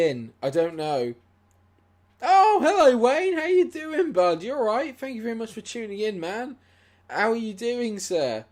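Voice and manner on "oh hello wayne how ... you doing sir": much higher, louder sing-song hello; cheery greeting. Real, not acted. Welcoming a viewer called Wayne, cheery and much higher. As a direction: greet a friend with big enthusiasm.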